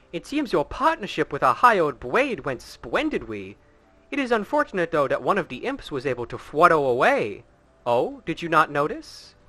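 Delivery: theatrical, sly noble voice with high flourishes; scheming courtly villain. Acted. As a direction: play a smooth, scheming aristocrat toying with the hero. Reads game dialogue in character.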